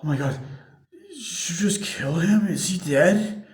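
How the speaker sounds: high, hushed whisper; retold whisper. Retelling Bob's shocked reaction after the killing, as a whisper. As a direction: breathe it out in shock. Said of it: "it's like".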